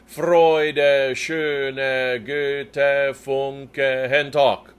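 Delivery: Freude, schöne, Goethe spoken in rhythm with a small accent on the note change; rhythmic accent. Shown as a demonstration. Director speaking text in rhythm for the choir. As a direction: speak the words in two with a little accent. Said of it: "accented as we speak".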